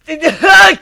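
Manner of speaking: loud, high mocking laugh; loud cruel laugh. Griffin laughing cruelly at the drone. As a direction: laugh right in her face.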